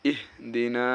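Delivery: "ইহ দি না" with the final "না" held long; drawn-out vowel. Shown as a demonstration. Teacher showing where the stretch comes, "না" drawn out. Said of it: "এখানে একটু টান হবে".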